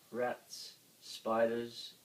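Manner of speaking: ordinary delivery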